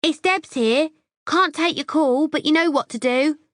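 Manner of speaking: put-on high, bright, sing-song girly voicemail; tinkly voicemail voice. A narrator's reading. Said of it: "a tinkly voice says".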